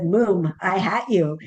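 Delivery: "Moom, I hat you" read as spelt, "Moom" stretched and "hat" clipped short; read as misspelled. Shown as a demonstration. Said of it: "read you the note the way you wrote it".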